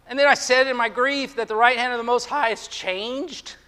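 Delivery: a touch of anguished pleading; pleading questions. Acted. Preacher voicing the psalmist's doubts, mild pleading. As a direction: ask each question like a wounded man.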